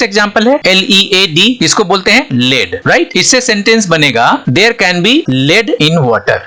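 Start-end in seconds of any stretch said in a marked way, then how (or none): 4.5-6.4 very slow, word by word, like dictation; slow example reading. Shown as a demonstration. Teacher reading the example sentence to students, very slow. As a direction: read it out slowly so students follow.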